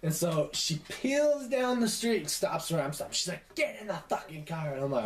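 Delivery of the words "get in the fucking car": mock-furious order, not shouted; imitated angry mom. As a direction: act out a seething mother's command. Retold angry mom ordering her in.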